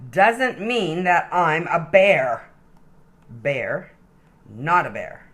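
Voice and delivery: lively, sing-song storybook reading; animated read-aloud for little kids; reading to children. Acted. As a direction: read it like a bedtime picture book. Reads picture book to child.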